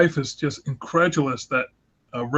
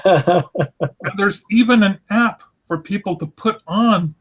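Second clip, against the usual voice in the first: laughing; 4 semitones higher, slower than usual. Real, not acted. Amused telling of divorce app.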